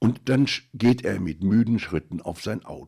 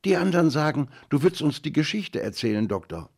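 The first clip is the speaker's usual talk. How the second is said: put-on high, louder piping little boy; squeaky voice; 9 semitones higher, 6 dB louder, faster than usual. A narrator's reading. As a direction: pipe it up like a small sick child. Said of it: "antwortete mit piepsiger Stimme".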